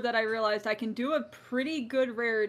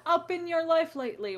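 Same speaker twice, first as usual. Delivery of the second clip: laughing; 6 semitones higher than usual. Real, not acted. Laughing while asking a question.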